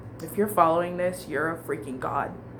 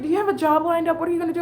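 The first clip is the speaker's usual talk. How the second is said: imitated manager; 10 semitones higher, 5 dB louder, much faster than usual. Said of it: "he's like".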